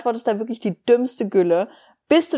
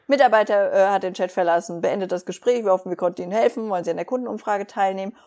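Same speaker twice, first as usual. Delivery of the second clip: rushed automated message; faster than usual. Retold or imitated. Reading the chat bot's messages.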